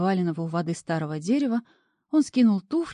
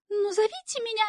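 much higher condescending falsetto; gracious lady. A narrator's reading. Imp permitting the devil a pet name, high gracious voice. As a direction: grant it like a gracious queen. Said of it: "милостиво разрешила красавица".

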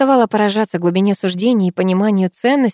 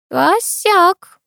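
higher, lightly drawled word; drawn-out; 12 semitones higher than usual. A narrator's reading. Masha reacting to the gossip, drawn-out and higher. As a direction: stretch it out, half amused. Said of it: "протянула Маша".

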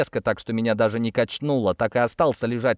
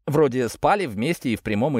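ordinary delivery, nothing marked

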